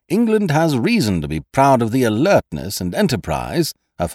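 speechify like a pompous invalid; odd precise manner. Acted. Invalid addressing visitors in a stiff precise voice. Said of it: "odd, precise way".

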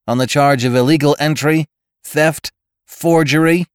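reciting charges, lightly annoyed; annoyed robot cop. Acted. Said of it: "muffled by the safe and sounded a bit annoyed".

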